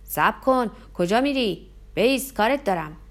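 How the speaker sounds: loud roaring calls in pursuit; a big man chasing in the dark, roaring. Acted. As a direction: bellow after someone running away.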